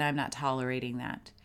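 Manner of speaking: low, controlled firm refusal; firm, not threatening. Shown as a demonstration. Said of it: "not in a threatening voice".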